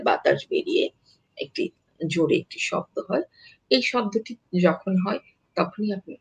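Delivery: normal talking voice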